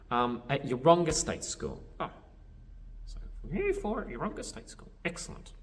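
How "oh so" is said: usual speaking voice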